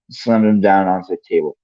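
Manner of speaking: plain reading voice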